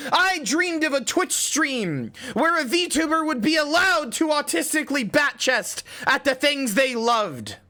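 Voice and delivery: high cute streamer voice, dramatic; dreamy anime speech, slow and grand. Acted. Dramatic mock monologue about dreams.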